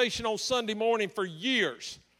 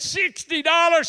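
surprised; 5 semitones higher, 6 dB louder than usual. Retold or imitated. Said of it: "I said".

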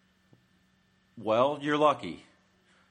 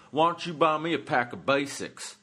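smart-aleck; 5 semitones higher, 3 dB louder than usual. Retold or imitated. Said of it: "he starts getting smart".

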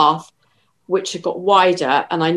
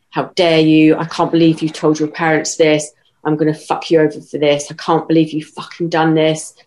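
louder, half-acted furious outburst; recounting her partner's furious rant, louder; retold angry rant; 4 dB louder than usual. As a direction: voice his threats with some heat, not full rage. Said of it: "he just exploded".

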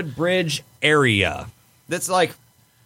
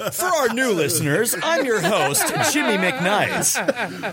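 higher, cheesy host introduction; lame announcer voice; 4 semitones higher than usual. Acted. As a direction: introduce each name like a corny emcee. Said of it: "the greatest lame announcer voice ever".

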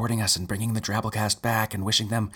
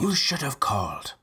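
whispering; 4 semitones higher than usual. Acted.

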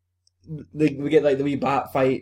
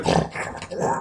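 imitated werewolf growl; 3 dB quieter than usual. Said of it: "they all start hulking up".

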